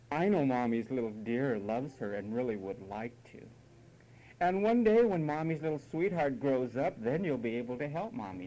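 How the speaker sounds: mock-tender, cooing mother; imitated syrupy babying; doting mom. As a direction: coddle a little child, hammed-up. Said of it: "remember how Mom used to say".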